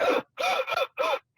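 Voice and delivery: sharp breathless gasp. Retold or imitated. Describing her reaction, a sharp gasp. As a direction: mimic being too breathless to speak. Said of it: "at times I'm, like, breathless".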